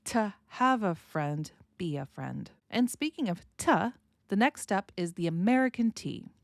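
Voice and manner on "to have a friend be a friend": "To" shortened to a weak "tə", slow; don't stress "To", say "tə"; reduced to. Shown as a demonstration. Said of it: "we're going to pronounce it as t".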